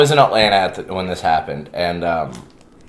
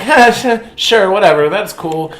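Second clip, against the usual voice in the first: dismissive inner voice; 8 semitones higher, 3 dB louder than usual. Retold or imitated. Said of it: "in my head, I'm like".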